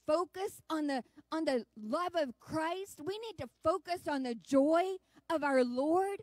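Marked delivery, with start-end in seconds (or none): 3.0-6.2 louder, ringing proclamation; fervent preaching. Real, not acted. Preacher to the congregation about Christ's joy, fervent. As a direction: proclaim the joy with full force.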